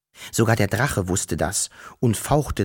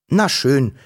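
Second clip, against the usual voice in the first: angry growl; 4 dB louder than usual. Acted. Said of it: "knurrte Wuschel ärgerlich".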